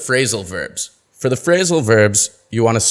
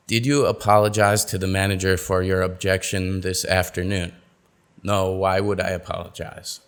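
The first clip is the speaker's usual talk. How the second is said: flat monotone read, low and soft; monotonous; 3 semitones lower, 4 dB quieter than usual. Shown as a demonstration. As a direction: read it with no stress at all, droning. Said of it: "A bit monotonous, don't you think?".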